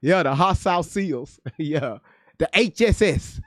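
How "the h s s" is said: laughing. Real, not acted. Laughing at own joke.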